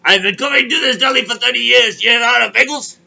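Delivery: can't believe it, yell it out; outraged disbelief. Retold or imitated. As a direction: customer shocked the deli is out of bagels. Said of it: "I go".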